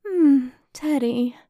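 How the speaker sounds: slow, drawn-out flirty coo. Acted. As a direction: coo his name, teasing.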